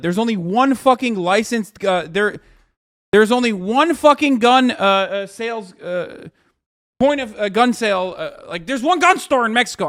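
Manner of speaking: loud, high, sputtering rant; so mad the words trip; real anger. Real, not acted. Streamer fuming at chat about Mexican gun stores, heated rant. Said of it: "I'm so mad".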